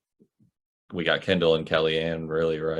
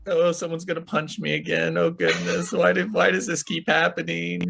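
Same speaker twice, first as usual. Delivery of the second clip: mock scared Beth; 10 semitones higher than usual. Beth voiced fearing a punch.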